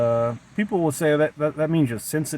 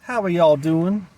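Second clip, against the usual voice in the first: put-on Southern accent; 4 semitones higher, 4 dB louder, slower than usual. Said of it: "maybe the real me is just a Southern woman".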